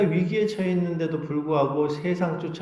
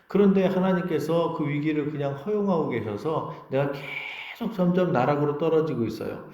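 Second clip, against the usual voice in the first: ordinary talk, nothing marked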